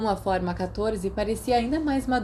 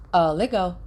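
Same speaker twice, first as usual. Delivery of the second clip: unenthusiastic. Acted. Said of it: "com um pouco menos de entusiasmo".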